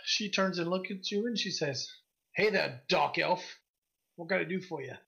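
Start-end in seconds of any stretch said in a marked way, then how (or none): 2.4-4.9 lightly voiced gruff woman shopkeeper; a hint of gruff merchant. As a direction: greet a customer in a mildly gruff voice. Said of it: "she's got this gruff voice".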